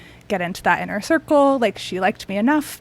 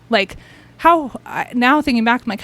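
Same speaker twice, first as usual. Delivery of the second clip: normal talking voice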